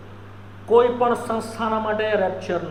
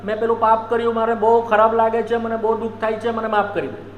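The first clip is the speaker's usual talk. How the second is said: mock weeping sinner. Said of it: "હું રડ્યા કરું".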